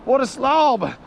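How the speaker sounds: high, drawn-out delight at the fish; excited exclaim. Real, not acted. Angler admiring his huge catfish, high delighted exclaim. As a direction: savour the word slob.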